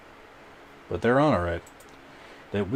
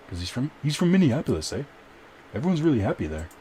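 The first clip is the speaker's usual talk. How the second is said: put-on light Canadian accent, pitched higher, tagging "eh?"; mock Canadian accent; 6 semitones higher than usual. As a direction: tease with a hint of a Minnesota-Canadian accent. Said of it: "I just imitate John Barnett".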